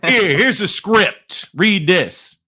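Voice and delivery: imitated New Jersey boss, high and slow; put-on New Jersey command; New Jersey accent. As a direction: hand out an order in New Jersey style. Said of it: "he had a New Jersey accent".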